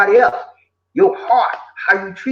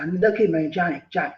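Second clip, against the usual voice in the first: reassuring boss. Shown as a demonstration. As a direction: lift Johnny up gently.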